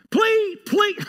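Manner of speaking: high, loud mock pleading; loud high-pitched pleading; begging. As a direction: beg like the Macedonians. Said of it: "They begged to be involved".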